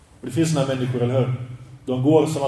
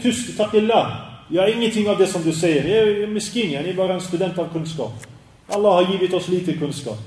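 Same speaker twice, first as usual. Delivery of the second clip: higher, lightly voiced humble protest; imitating humble sheikh; 4 semitones higher than usual. Ibn Baz refusing praise in video, mildly humble. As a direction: wave off the praise modestly. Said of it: "Han säger typ".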